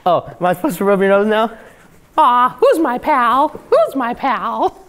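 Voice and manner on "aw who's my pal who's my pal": cooing. Real, not acted. Cooing to a character.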